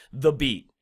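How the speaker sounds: light "the", stressed "beat"; iambic stress. Shown as a demonstration. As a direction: lean on the second word, "beat". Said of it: "the iambic p-, portion of it".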